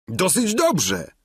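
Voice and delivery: high, slow, lightly voiced squire; Sancho's voice. A narrator's reading. Squire Sancho answers the duchess, high and slow. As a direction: play the simple squire, drawn out. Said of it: "odpowiedział Giermek".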